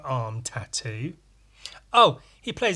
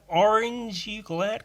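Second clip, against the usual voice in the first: high-pitched American imitation; exaggerated American question; American accent; 7 semitones higher, slower than usual. Shown as a demonstration. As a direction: lift it high in mock American. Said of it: "like, an American accent".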